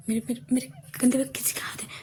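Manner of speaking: fast frightened stammering whisper; breathless with fear, barely voiced; hushed panicked stutter; scared whisper. Girl terrified in dark after movie.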